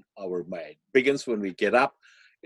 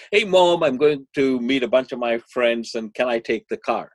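put-on excited teen; 6 dB louder than usual. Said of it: "all excited and says".

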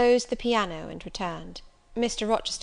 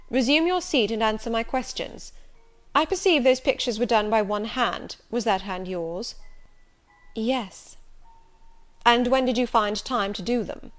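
Rochester, commanding; 2 semitones higher, 4 dB louder than usual. Acted. Rochester questions Jane.

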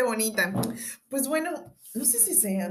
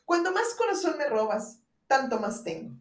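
declaiming; 5 semitones higher than usual. Acted.

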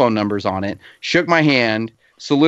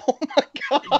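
stunned; 4 dB quieter than usual. Retold or imitated. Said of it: "and I'm like".

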